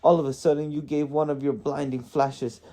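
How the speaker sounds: exasperated dwarf. A narrator's reading. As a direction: pile up excuses as a flustered dwarf.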